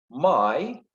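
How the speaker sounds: slow, separated syllables with pauses. Shown as a demonstration. Teacher counting syllables for students, syllable by syllable. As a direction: count out "My letters" beat by beat. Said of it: "here is three syllables".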